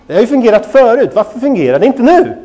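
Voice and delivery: mildly exasperated retold thought; mock frustration. Replays frustrated thought while baby screams.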